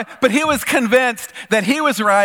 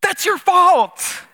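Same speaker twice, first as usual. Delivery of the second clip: That's your fault said slowly and higher, each word weighed; slow flat verdict; 12 semitones higher, 4 dB louder, much slower than usual. Retold or imitated. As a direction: hand down the verdict to the coworker. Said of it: "And I said".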